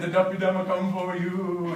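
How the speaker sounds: lightly spooky ghost voice; a hint of a haunting spirit. Missionaries posing as duppies.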